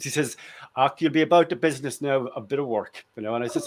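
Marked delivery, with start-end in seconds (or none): 0.8-3.0 lightly imitated Northern Irish accent; a touch of staunch Northern Irish. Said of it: "in his staunch Northern Ir-, Irish accent".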